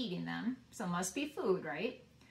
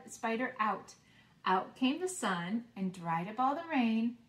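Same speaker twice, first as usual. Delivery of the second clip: put-on sing-song rhyme for kids; reading a nursery rhyme; 2 semitones higher than usual. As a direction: bounce through it like a children's rhyme.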